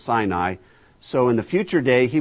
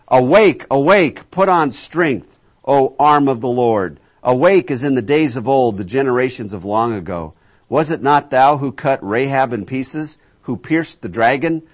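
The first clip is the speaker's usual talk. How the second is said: much louder rousing cry, slowing on key words; scripture proclamation; 7 dB louder than usual. Acted. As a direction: call out like a summons to arms. Reads scripture aloud.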